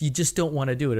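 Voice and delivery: ordinary talk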